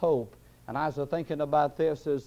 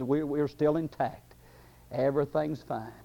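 grave clothes' calm answer; 5 dB quieter than usual. Acted. Grave clothes reporting to the devil that all is well, calm answer. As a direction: answer quietly, all in order. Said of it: "the grave clothes said".

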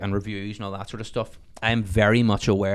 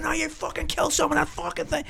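imitating angry neighbour; 5 dB quieter than usual. Neighbour shouting at him.

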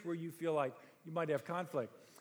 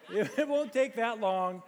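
laughing; 2 semitones higher, 6 dB louder, slower than usual. Real, not acted. Laughing after own joke.

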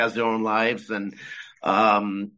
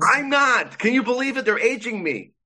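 amused disbelief; 10 semitones higher than usual. Real, not acted. Amused disbelief at being aged.

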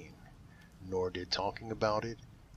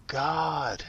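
high, loud cry of God; yelled; 7 semitones higher, 7 dB louder than usual. A narrator's reading. Wife cheated on, yelling at God, a loud high cry. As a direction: shout the word God up to heaven. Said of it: "she yelled".

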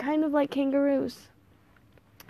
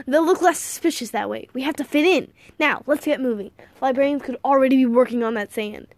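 put-on higher, louder, urgent old man; brisk eccentric grandfather; 3 semitones higher, 5 dB louder than usual. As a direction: hurry the boy along confidently.

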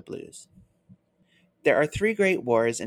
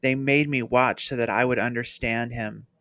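crying wretchedly; 5 dB louder than usual. Acted. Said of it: "Caramon cried wretchedly".

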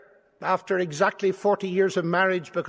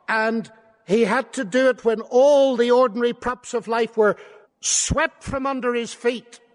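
raised, insistent pulpit voice; impassioned preaching; 5 semitones higher, 5 dB louder than usual. Real, not acted. Preacher on learning to trust God in hardship, insistent preaching. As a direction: drive each point out to the congregation.

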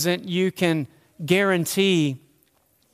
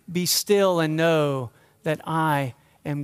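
slow scripture reading; 3 semitones lower than usual. Shown as a demonstration. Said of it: "Just be still".

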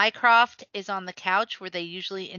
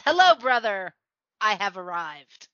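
Loki; 5 dB louder than usual. Acted. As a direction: proclaim your own arrival to the room. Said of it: "Loki walks in".

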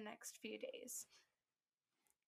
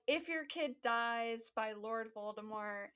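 mock official waiver; 5 dB louder than usual. Mock school waiver wording.

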